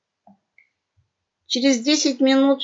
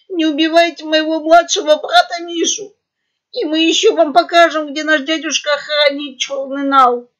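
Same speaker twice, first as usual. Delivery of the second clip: higher, louder shaky cry; trembling shout; 6 semitones higher, 7 dB louder than usual. A narrator's reading. Elder pug pleading for his brother, trembling shout. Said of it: "крикнул трясущимся голосом".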